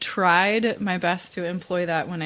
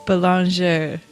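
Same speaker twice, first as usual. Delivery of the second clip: surname in a careful French accent; attempted French pronunciation of "boulanger"; 3 dB louder, slower than usual. Shown as a demonstration. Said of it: "say that with a French accent".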